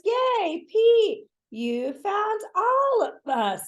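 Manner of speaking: high excited cheer. A narrator's reading. The whole gang cheering Pete for finding them, high and excited. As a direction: cheer him on, bright and high.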